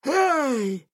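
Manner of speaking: high sharp shout. Acted. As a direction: call out sharply after him. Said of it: "крикнул ему вслед Аргус". (окрик)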